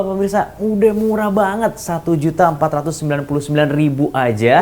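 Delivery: upbeat sales pitch; infomercial. Acted. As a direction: sell the price to viewers. TV shopping price pitch. (gaya iklan belanja televisi)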